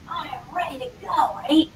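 loud, eager declaration; emphatic, mildly hyped-up enthusiasm; acted excitement. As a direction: play someone all fired up to start. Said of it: "You're all excited".

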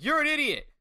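high-pitched mock outburst; retold angry insult. Rishi insulting Money, mock angry outburst. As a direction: hurl it with exaggerated scorn.

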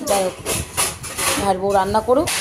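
normal talking voice

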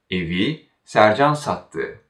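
Sercan stands out before a falling sattı; stress on Sercan. Shown as a demonstration. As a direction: put the weight on Sercan. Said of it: "guide the listener to focus on Sercan".

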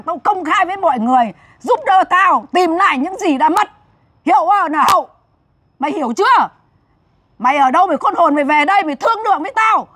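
insistent public call-out of a debtor; hard demand. Real, not acted. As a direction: scold and warn, easing toward the end. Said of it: "bây giờ phải cứng". (cảnh cáo con nợ, giọng cứng rắn)

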